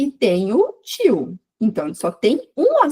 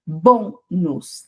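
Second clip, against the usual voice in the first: "bônus" split, BÔ held stronger than nus; weight the BÔ of "bônus"; penultimate syllable stressed; 3 semitones lower than usual. Shown as a demonstration. Teacher showing paroxytone words, BÔ of "bônus" stressed. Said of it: "penúltima".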